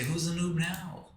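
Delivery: slow, high gloating taunt; gloating villain. Pretend. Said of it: "And I'm gonna say".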